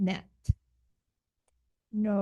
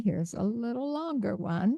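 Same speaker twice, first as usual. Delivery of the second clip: whispered; 6 dB quieter than usual. Real, not acted. Teacher whispers to class.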